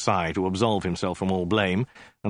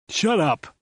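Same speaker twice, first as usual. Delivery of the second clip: higher, snapped shut up; yelling; 9 semitones higher than usual. A narrator's reading. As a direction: yell at the other head. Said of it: "his right head yelled at his left".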